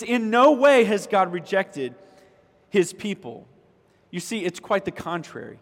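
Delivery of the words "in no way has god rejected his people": loud, raised-pitch preacher's rebuttal; emphatic denial. Retold or imitated. Preacher voices Paul's answer to the church, emphatic denial. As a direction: drive it out forcefully, easing slightly at the end. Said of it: "in the most emphatic way possible".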